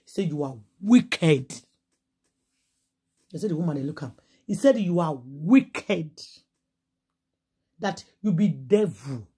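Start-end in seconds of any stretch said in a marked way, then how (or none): 0.2-1.5 very slow, heavy, every word dragged out; slow accusation. Retold or imitated. Confronting the mother-in-law. 4.8-9.3 very slow, heavy, every word dragged out; slow accusation. Retold or imitated. Confronting the mother-in-law.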